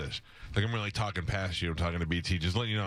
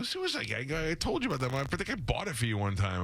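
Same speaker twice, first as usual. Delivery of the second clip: retold exasperation; 5 semitones higher than usual. Retells exasperated reply to his father.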